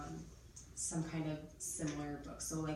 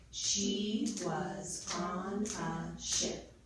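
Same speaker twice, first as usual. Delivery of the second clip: extremely slow, louder, every word separate; pounded-out sentence; 5 dB louder, much slower than usual. Shown as a demonstration. Teacher has pupils count the words, slow and pounded out. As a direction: pound out each word with a gap. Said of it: "pound out how many words".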